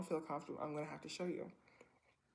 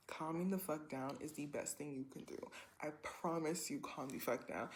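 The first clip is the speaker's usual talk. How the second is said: firm self-calming; 3 semitones lower, 6 dB quieter than usual. Retold or imitated. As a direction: softly order yourself to settle. Retold stern talk to herself.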